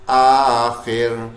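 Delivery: آخر slow, with a thin ر. Shown as a demonstration. Teacher modelling the correct thin ر in آخر. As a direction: draw out آخر and keep the ر light. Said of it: "ابھی باریک بنے گا".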